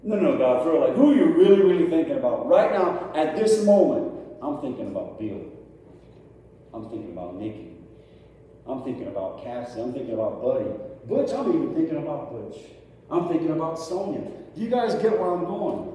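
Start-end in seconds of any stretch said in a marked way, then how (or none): 0.0-4.1 insistent plea. Pretend. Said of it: "pleading with God". 4.4-14.2 voicing God. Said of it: "God's answer".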